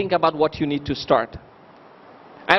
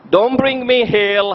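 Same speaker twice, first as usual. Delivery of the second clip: usual speaking voice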